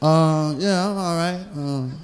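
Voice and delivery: low, strained fake nice greeting; fake friendly. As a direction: grit out pleasantries to the ex. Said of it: "Right, you be".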